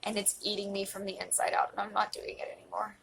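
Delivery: pushing the words out through tears; emotional whisper. Real, not acted. Vowing to camera to stop hiding, tearful. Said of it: "why I'm getting emotional".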